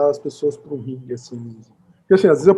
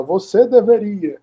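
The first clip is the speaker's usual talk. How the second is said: bossy imperative; 4 semitones higher, slower than usual. Retold or imitated. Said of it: "faz um juízo de valor e fala".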